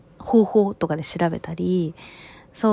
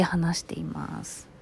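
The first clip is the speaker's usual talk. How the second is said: quiet at night; 8 dB quieter, slower than usual. Real, not acted. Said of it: "若干小声で話しています".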